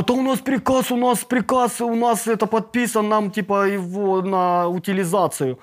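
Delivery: high insistent, we have orders; defensive protest. Retold or imitated.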